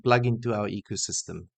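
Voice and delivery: put-on Swedish accent. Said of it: "Is that the Swedish accent?".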